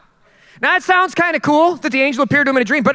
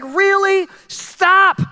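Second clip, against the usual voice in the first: disbelieving snap; 7 semitones higher, much slower than usual. Retold or imitated. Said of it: "Joseph is like".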